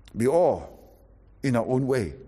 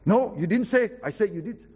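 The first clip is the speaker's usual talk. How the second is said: raised, insistent bickering; stubborn retort; 8 semitones higher than usual. Shown as a demonstration. Preacher mocking a stubborn spouse, raised and insistent. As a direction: argue back high and pushy. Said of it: "Instead of".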